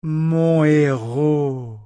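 very slow, melodious praise. A narrator's reading. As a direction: savor the words melodiously. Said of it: "d'une voix mélodieuse".

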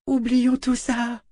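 high, slow, coaxing princess; false kindness from a cornered bully; suddenly very nice. A narrator's reading. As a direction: coax sweetly in a drawn-out high voice. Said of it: "soudain très gentille".

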